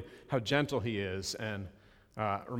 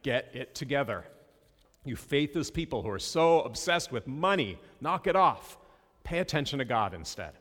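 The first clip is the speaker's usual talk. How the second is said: fed-up strict Jesus. Retold or imitated. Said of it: "strict and kind of fed up and annoyed".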